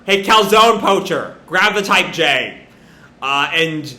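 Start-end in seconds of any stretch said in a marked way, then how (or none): 0.1-2.6 raised voice, ordering them about; half-yelled taunting command; mild mock yell. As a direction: call down to someone below. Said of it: "he yells down to Whisper".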